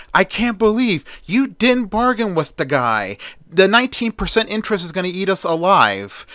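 stunned griping about the bank deal; in shock. Acted. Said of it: "in shock".

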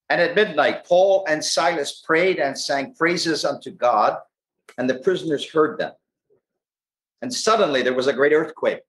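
measured, lilting Bible reading to a congregation; scripture reading. Real, not acted. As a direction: read the passage aloud in deliberate phrases. Reads scripture aloud.

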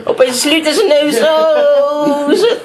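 high, laughing while telling it; cracking up mid-story. Real, not acted. Retelling funny moment, cracking up.

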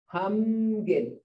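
humgin with the m held long before gin; drawn-out M sound. Shown as a demonstration. Teacher letting learners hear the sound inside humgin, long M. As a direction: lean on the humming m in humgin. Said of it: "Hear that me in there?".

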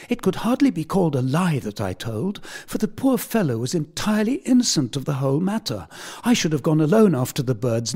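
put-on a boy throwing himself on mercy for a friend; passionate begging. A narrator's reading. Tom pleads with Allworthy to forgive George, high and urgent. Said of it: "very passionately begging".

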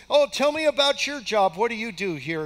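imitating an eager newcomer, starting high and loud; chatty retold enthusiasm, easing off at the end; excited grandson. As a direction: play the happy young employee asking. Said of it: "He's so excited about this job".

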